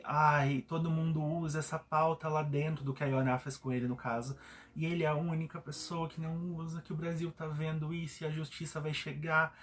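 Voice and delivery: lightly mimicking someone playing the victim; a touch of put-upon complaining; mock self-pity. Retelling a man's complaint to a housemate, mildly self-pitying. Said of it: "se vitimizando".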